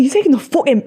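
indignant mock northern accent. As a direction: accuse in mock northern English. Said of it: "but was a northern accent".

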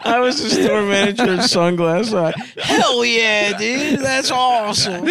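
high, giggling retelling; laughing. Retold or imitated. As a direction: quote it while laughing. Repeating clip through laughter.

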